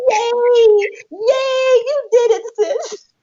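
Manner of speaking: very high mock cheering squeal; overjoyed friend. Sis clapping on the phone, squealing delight. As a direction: cheer shrieky-high, near happy tears. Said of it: "then you was like".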